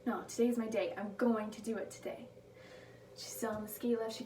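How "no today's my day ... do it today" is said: firm affirmation. Retold or imitated. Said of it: "she just replaces it with".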